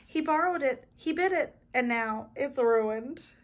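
high, loud acted whine; storybook child's upset tattling; crying complaint. A narrator's reading. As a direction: complain to mother in rising outrage, slowing at the end. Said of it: "cried Clark".

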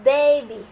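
put-on baby as 'BAY-bee', loud first syllable, falling away; pronunciation demo. Shown as a demonstration. Teacher reading the English for เด็กทารก, pronunciation demo. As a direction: model baby loudly as one isolated word. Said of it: "ภาษาอังกฤษอ่านว่า".

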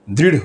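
দৃঢ় ending in flapped r plus h; r with pressed h. Shown as a demonstration. Teacher explains the aspirated r, দৃঢ় with pushed h. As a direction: press a breath after the flap in দৃঢ়. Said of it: "একটা হ বসে একটা pressure দেই".

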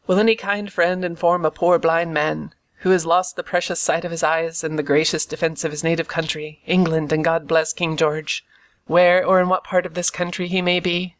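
lilting, whining blind beggar voice; odd sing-song beggar. Acted. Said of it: "raising his voice in an odd sing-song".

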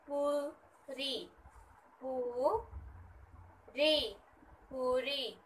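पूरी stretched out slowly and softly. Shown as a demonstration. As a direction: draw out पूरी for the children. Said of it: "ऊ का sound". (पूरी धीरे और नरमी से)

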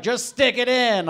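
high, loud girlish impression; eager girl voice. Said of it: "But if she's like".

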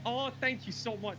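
high, slow, gushing gratitude; gushing thanks. Acted. Driver thanks an eager shopping companion, gushing. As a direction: draw out a high-pitched thank you.

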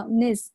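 "nis", final N running into "is"; linked sounds. Shown as a demonstration. Teacher demonstrates liaison, "is" said as nis. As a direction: join the N onto "is" as nis. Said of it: "它就有一个连读".

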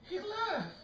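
soft, very high and tickled; high, gleeful squeak. Real, not acted. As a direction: squeal it softly, near laughter. Delighted that he left.

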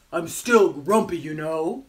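emphatic, mildly grumpy protest; lightly voiced grumpy penguin. Penguin insisting to the reader, mild grumpiness. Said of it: "he says".

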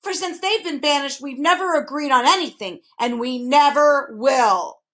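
high start, dragged out on "we never will"; emphatic last remark. A narrator's reading. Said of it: "He emphasized his last remark".

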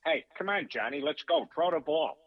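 lightly voiced talking teddy bear; a hint of the film bear, egging a pal on; Seth MacFarlane. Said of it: "filled in for Seth MacFarlane on Ted Two".

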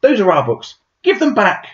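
high, loud protesting yell; children yell. A narrator's reading. Children confronting the book thief, yelling high and loud. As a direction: shout it at the thief, high and indignant. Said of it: "the children yelled".

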